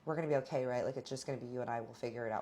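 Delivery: a touch of a fragile partner seeking reassurance; vulnerable, retold. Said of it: "he was very vulnerable".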